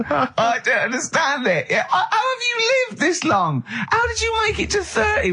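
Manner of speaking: shrieking with laughter, pitch way up; can barely get the words out for laughing. Real, not acted. Host howling at his cohost's grimacing face, laughing. Ricky cracking up at Karl.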